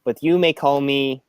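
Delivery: slow, lightly Russian robot voice; hint of a Russian accent. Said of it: "I'll try the Russian accent".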